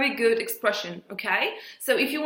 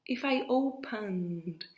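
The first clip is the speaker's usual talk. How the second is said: "If I opened" repeated slowly and softer, each word set apart; 4 semitones lower, 10 dB quieter, slower than usual. Shown as a demonstration. Teacher slowly repeats "If I opened" for learners. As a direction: spell out "If I opened" slowly for the class.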